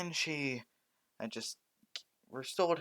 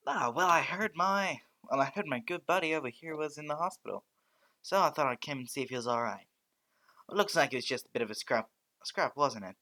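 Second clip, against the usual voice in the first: loud, higher, booming cheerful hero voice; President Mike; 4 semitones higher, 6 dB louder than usual. Acted. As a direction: burst in like a boisterous radio host. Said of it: "President Mike".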